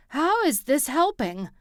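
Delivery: Harry snaps at his brother in pain; angry shout. A narrator's reading. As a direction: shout it with anger brewing. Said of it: "he shouted, anger brewing".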